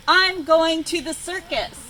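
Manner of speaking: loud, high squawking declaration; a rooster storming off, loud and squawky. A narrator's reading. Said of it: "he squawked".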